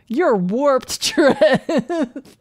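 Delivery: loud, high, through laughter; laughing. Acted. Player answering Trev after his joke, laughing loudly. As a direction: blurt it out while cracking up.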